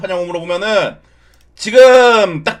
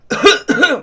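put-on old man cough; 8 semitones higher than usual. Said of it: "할아버지 톤으로".

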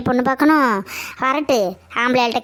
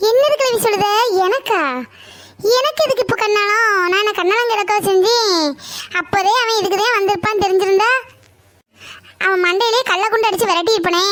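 higher-pitched outraged objection; indignant protest; 5 semitones higher than usual. Acted. Granddaughter to grandmother about the marriage broker, indignant.

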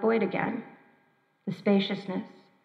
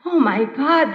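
cried out; 4 semitones higher, 5 dB louder, slower than usual. Retold or imitated. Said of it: "they cried out".

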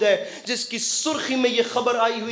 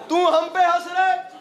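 climactic shout; 6 semitones higher than usual. Shown as a demonstration. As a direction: hurl the line at the crowd at full force.

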